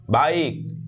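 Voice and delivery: "बाइक" with its vowel drawn out; long vowel. Shown as a demonstration. Teacher shows a long vowel, "बाइक" with lengthened vowel. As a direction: stretch the vowel glide in "बाइक". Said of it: "काफ़ी time तक आ रहा है".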